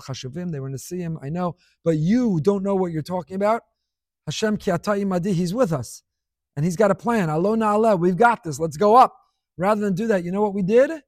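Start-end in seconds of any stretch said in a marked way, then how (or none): 1.8-9.2 building from firm to loud rallying cry, let's go up shouted; rally the people to go up, growing louder; rousing call to action. Retold or imitated. Kalev rallying the frightened people, building to a loud rallying cry.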